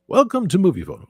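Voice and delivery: high, swooping phone-line announcer; Movie Phone announcer. Acted. Streamer demonstrating the voice for voiceovers, Movie Phone style. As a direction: belt out a high recorded-greeting voice. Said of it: "movie phone voice".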